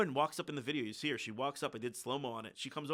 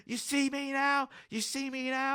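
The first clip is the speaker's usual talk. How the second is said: high, drawn-out imitation of a distraught wail; mock bawling; 12 semitones higher, slower than usual. Imitating a bawling protester ripping off the mask, mock wail. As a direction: wail it slowly in a put-on high voice. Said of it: "bawling her eyes out".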